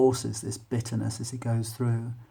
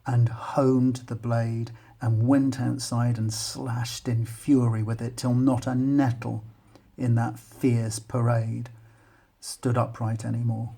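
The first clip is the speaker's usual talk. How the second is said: measured, deliberate reading of a poem. Acted. Teacher reads poem aloud.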